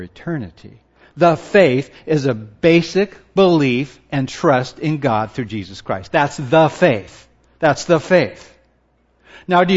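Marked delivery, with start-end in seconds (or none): 1.2-1.9 THE given weight as a full "thuh"; stress on THE. Shown as a demonstration. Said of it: "those two words, "the faith". 6.1-8.5 THE weighted as a full "thuh" each time; firm emphasis on THE; stress on THE. Shown as a demonstration. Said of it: "those two words, "the faith".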